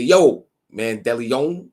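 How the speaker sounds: slow, drawn-out Yo, Man DeLeon; lightly voiced mock of Jungle saying yo; imitating Jungle's greeting. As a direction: stretch it like a laid-back northern greeting. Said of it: "That's how he said it".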